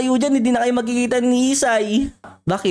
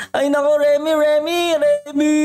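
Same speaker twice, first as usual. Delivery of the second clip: calling out; 3 semitones higher than usual. Acted. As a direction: call to a friend lying unresponsive. Calling to fallen friend Remy. (pahabang pagtawag sa kaibigan)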